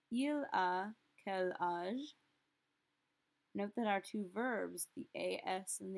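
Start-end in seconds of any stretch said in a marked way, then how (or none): 0.1-2.1 slow "Il a quel âge?" with "il" leading; slow model phrase. Shown as a demonstration. Teacher modelling the question about a boy. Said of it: "we're going to ask".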